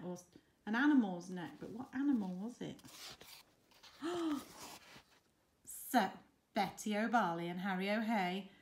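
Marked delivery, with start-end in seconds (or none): 4.0-4.7 short, high gasp; dramatic gasp. Acted. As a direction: gasp for the young listener. Storyteller delighted before the wedding.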